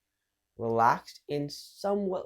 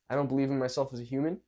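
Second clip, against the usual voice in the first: level, quicker, self-assured statement; more sure; faster than usual. Shown as a demonstration. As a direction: say it steadily, at an everyday pitch. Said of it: "one is more sure".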